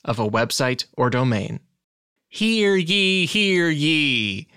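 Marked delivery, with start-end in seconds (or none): 2.3-3.2 proclaiming like a town crier; town crier call. Pretend. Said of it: "what those town criers or whatever said". 3.2-4.5 town crier call. Pretend. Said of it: "what those town criers or whatever said".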